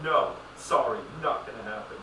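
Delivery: loud, curt refusal in a mock staff voice; hammed-up no from a store clerk; mock stiff clerk. Mock store clerk refusing a customer, loud and curt.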